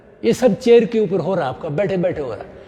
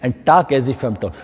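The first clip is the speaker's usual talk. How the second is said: slow instruction; 5 semitones lower, slower than usual. Shown as a demonstration. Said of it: "ये मेरी height अच्छी होगी".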